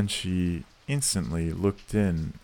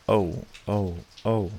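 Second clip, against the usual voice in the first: shriek. A narrator's reading. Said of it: "Each of these exclamations was a shriek".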